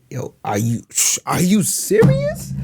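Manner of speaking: starts low, then serious? shoots up high, slow; low to high disbelief. Shown as a demonstration. Actor trading the line back and forth, rising disbelief. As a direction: build from low mutter to high squeal. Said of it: "we'll say it different ways".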